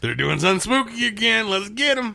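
high squeaky little critter voice; squeaky cartoon voice. Joke voicing of tram characters.

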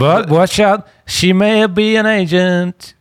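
whisper-like conspiratorial aside played big; mock warning.

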